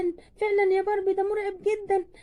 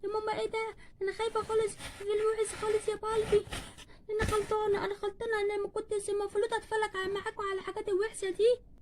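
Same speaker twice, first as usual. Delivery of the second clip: tearful, softly pleading little voice; a scared child begging to be hidden; frightened child; 4 dB quieter than usual. Acted. (خوف طفولي باكٍ)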